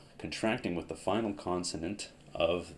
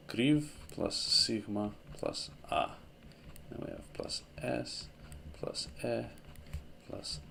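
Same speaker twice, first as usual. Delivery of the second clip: slow spelled-out formula; 5 semitones higher, 3 dB quieter than usual. Shown as a demonstration. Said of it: "I'm going to conjugate the full".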